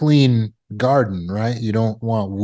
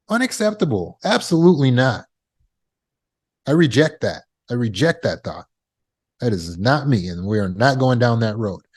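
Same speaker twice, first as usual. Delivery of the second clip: firm rejection. Shown as a demonstration. Speaker demonstrating how to handle an inappropriate thought, firm. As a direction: put your foot down, each statement falling with finality. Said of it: "You see the firmness in my stance".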